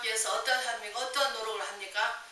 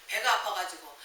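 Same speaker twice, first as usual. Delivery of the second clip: ordinary talk, nothing marked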